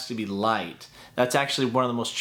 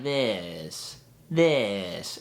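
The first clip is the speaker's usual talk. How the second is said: dropping too low; 5 semitones lower than usual. Shown as a demonstration. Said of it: "go back to being low".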